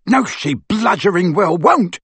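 slow, rough angry bellow. Acted. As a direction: roar back at her. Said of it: "bellowed Amycus".

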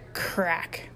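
sharp whispered burst; toneless, explosive sound word; imitated crack. A narrator's reading. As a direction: voice the noise of splitting wood. Sound of the kick on cabin.

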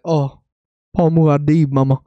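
lightly voiced drawling movie star; Austin Butler impression. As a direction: play the star with an exaggerated accent. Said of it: "I can't wait for Austin Butler to be like".

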